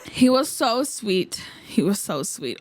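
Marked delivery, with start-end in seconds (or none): 0.1-1.4 whispered swoon. Real, not acted. Fan swoons over her idol to viewers, slow whisper. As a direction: breathe it out slowly in a whisper.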